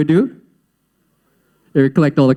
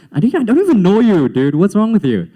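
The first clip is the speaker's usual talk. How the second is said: higher, incredulous comeback; indignant retort; 5 semitones higher than usual. Retold or imitated. Young self to mocking strangers, higher and indignant. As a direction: imitate being baffled by a pushy stranger.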